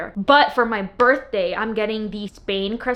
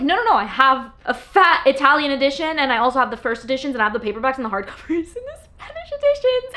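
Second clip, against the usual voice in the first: excited rush; 3 semitones higher, 4 dB louder, faster than usual. Retold or imitated. Telling her friend about all her editions, excitedly. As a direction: pile it on like a proud confession.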